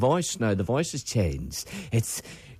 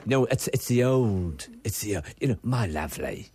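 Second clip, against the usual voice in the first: Bruce Forsyth impression; 3 semitones lower than usual. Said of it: "the Bruce Forsyth I don't want".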